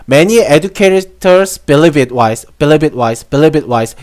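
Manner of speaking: believe it wise with "it" shrunk to a light t sound; it melted in. Shown as a demonstration. Teacher showing the class how "it" melts into the phrase. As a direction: glide "believe it wise" so "it" almost vanishes. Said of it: "이런 식으로 약간 이렇게 녹아내린단 말이에요".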